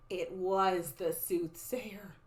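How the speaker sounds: slow, hushed reveal; drawn-out breathy suspense; suspenseful whisper. A narrator's reading. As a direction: whisper it as a spooky discovery. Suspenseful reveal of creepy character.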